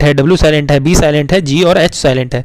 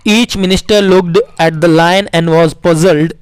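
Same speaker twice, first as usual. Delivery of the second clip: put-on slow story reading to children; much slower than usual. Teacher reading the Akbar story aloud to the class. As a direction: read it slowly and clearly.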